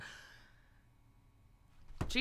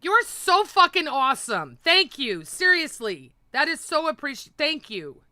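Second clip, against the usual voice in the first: loud, higher, gushing thanks; excited thanks; 7 semitones higher, 7 dB louder than usual. Real, not acted. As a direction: shout your gratitude to the donor. Thanking donor for super chat.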